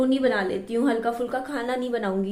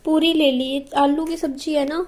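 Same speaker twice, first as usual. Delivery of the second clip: louder, calling across the house; 2 semitones higher, 4 dB louder than usual. Real, not acted. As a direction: call out to mum in the next room. Calling out to mother in another room. (दूसरे कमरे में mummy को ज़ोर से पुकारते हुए)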